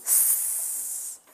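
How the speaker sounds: "S" as a long soft sss sound; son S isolé. Shown as a demonstration. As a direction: hold a pure hiss for "S", not the letter name. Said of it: "Qui fait le son". (« S » prononcé ssss, longuement)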